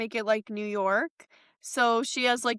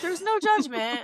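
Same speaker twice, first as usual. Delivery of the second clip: whispered; 7 semitones higher than usual. Real, not acted. Playful reply to whisper.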